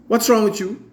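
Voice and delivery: high-pitched scolding mum; imitating mum correcting speech, high and emphatic; proper-speaking mother. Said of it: "use the proper pronunciation of words".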